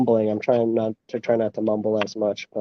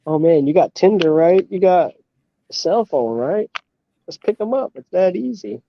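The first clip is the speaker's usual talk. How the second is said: higher-pitched mocking imitation; mock glib advice; 7 semitones higher than usual. Mimicking pickup advice for the pandemic, mock breezy. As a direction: parody someone breezily making it sound easy.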